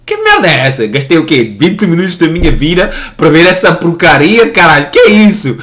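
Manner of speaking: imitating a fed-up viewer; mock annoyed viewer. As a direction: rant at a wasted twenty minutes.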